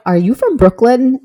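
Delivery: excited high "Are you from Brooklyn?" quote; curious locals asking brightly; surprised locals. Retold or imitated. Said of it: "they're like".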